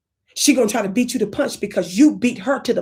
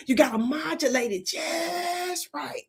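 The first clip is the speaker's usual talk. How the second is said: higher and slow, drawn out; modulated; 5 semitones higher, 4 dB quieter, slower than usual. Shown as a demonstration. Comedian demonstrating modulation for the audience.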